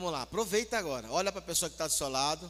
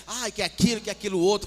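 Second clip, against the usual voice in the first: loud, hammed-up complaining; playacted exasperated rant; mock nervous outburst; 3 semitones higher, 10 dB louder than usual. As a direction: wail loudly as if you've had enough. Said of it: "nervoso mesmo, sabe? Ô, nervoso".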